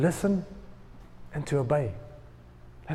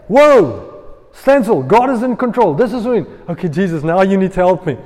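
the Henny version; 6 dB louder than usual. Acted. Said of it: "That's the Henny version".

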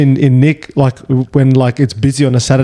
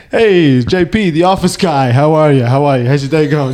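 put-on New Jersey accent. Former coworker greeting JP on the stairs in a New Jersey accent. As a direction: greet like a friendly New Jersey office guy. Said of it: "hilarious, like, New Jersey accent".

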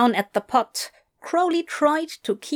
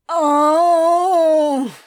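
anguished oh; 8 semitones higher, 7 dB louder than usual. Acted. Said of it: "Crowley opined".

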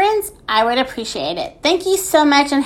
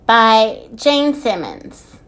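measured picture-book narration with lilting phrases; story reading; slower than usual. A narrator's reading. Podcast host reading a children's book, storytelling. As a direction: read it aloud to small children.

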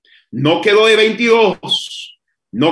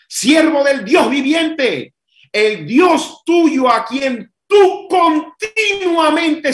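pleading shout; 4 semitones higher, slower than usual. Acted. King calls into the den.

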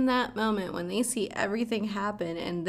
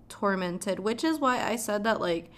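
ordinary delivery

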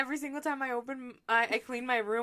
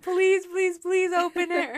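higher, louder, excited begging; eager pleading; 7 semitones higher, 4 dB louder, slower than usual. Retold or imitated. Friend begs her to open the gift, excited pleading. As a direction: plead like an impatient kid at a party.

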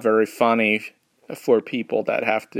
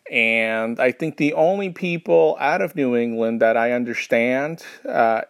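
usual speaking voice

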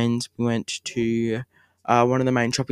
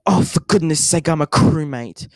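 imitating a shout; 3 semitones higher, 6 dB louder than usual. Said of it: "she will shout from the top of her lungs".

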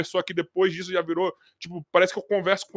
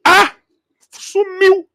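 much higher, louder exclaim; surprised cry; 13 semitones higher, 11 dB louder, much slower than usual. Retold or imitated. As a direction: yelp as the word vanishes. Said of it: "Eu falei".

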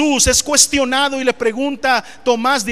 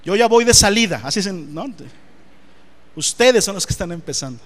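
lightly voiced old man; a hint of a very old man, lower; 5 semitones lower than usual. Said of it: "voy a empezar a hablar como viejito".

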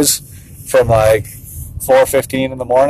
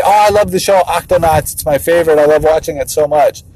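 imitated kid enthusiasm, easing down; six-year-old son; 3 semitones higher than usual. Six-year-old raving about his favorite show, imitated gushing. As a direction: gush like a keen little kid.

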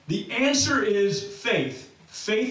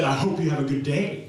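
mock sarcastic well-wishing; 5 semitones lower than usual. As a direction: read the kind words as if they were a dig. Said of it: "Look how sarcastic they are".

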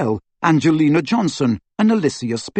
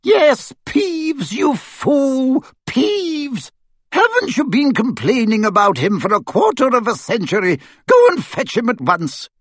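much higher, sharp exasperated orders; impatient command; 11 semitones higher than usual. A narrator's reading. McGonagall ordering Filch to fetch Peeves, exasperated.

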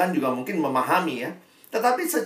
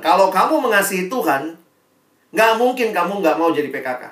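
louder, pressing insistence; forceful insisting; 3 semitones higher, 7 dB louder than usual. Real, not acted. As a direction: push it home like you won't take no. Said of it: "saya ngomongnya kesannya kayak maksa". (menegaskan dengan suara keras)

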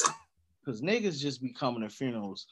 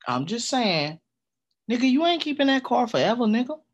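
loud protest; 9 semitones higher, 8 dB louder than usual. Retold or imitated. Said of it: "I'm like".

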